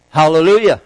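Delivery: loud rider's command to go; calling out a command. Acted. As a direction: call out to get the donkey moving.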